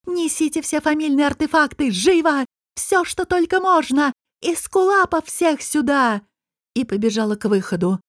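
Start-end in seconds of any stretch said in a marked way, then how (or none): 0.0-6.2 high, urgent royal orders, "живо" snapped with a falling end; queen ordering artefacts and healers; commanding shout. A narrator's reading. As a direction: shout the servants into action. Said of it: "закричала".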